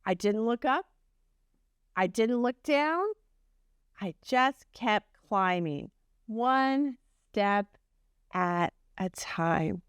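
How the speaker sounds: gentle storybook reading voice; reading to children. A narrator's reading. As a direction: tell it like a bedtime story to a class. Reads Humpty's story aloud.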